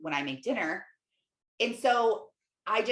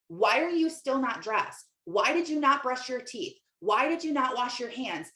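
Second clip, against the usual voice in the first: annoyed mom; 4 semitones higher than usual. Retold or imitated. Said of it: "I was annoyed with her".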